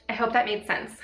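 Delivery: breathless from being sick; a bit winded; out of breath. Real, not acted. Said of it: "I don't know why I feel out of breath".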